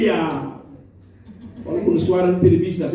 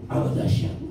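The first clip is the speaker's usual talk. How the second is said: whispered praise; 5 semitones lower, 5 dB quieter than usual. Pretend. Voicing praise over snoring.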